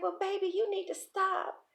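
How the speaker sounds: high-pitched mock protest from an aunt; protesting old aunt. Aunt turning down money, high mild protest. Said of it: "So she was like".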